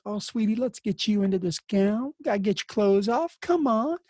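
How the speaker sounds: Southern charm. Retold or imitated. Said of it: "Southern accent, and he'd turn it up".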